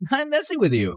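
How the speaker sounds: ordinary delivery, nothing marked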